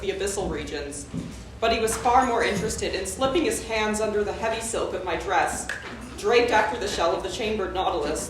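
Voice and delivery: measured literary reading voice; story narration. Acted. Reads her story aloud.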